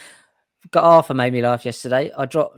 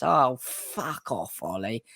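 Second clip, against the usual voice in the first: mock EastEnders; 5 dB quieter, much slower than usual. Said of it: "like, EastEnders".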